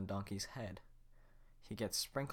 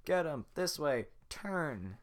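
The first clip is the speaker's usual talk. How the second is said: higher, louder guard yells; yelling guards; 6 semitones higher, 6 dB louder, slower than usual. Acted. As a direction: shout directions in a chase. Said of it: "are yelling".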